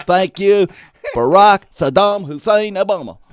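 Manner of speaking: high, loud mock sarcasm; mock sarcastic thanks. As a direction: lay the sarcasm on thick. Cousin's sarcastic punchline.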